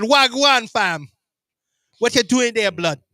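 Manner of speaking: hammed-up Top Boy greeting, London slang; London street slang accent. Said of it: "I'm learning a lot of new things, by the way, from Top Boy".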